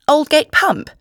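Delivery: high, loud astonished echo; exclaiming. A narrator's reading. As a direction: repeat it in amazement, voice shooting up. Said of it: "I exclaimed".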